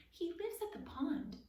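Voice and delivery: high mysterious hint. Acted. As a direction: tease a secret. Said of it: "added mysteriously".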